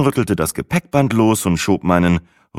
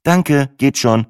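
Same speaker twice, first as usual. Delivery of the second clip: verlegen; 8 semitones higher, 5 dB louder, slower than usual. A narrator's reading. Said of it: "sagte ich".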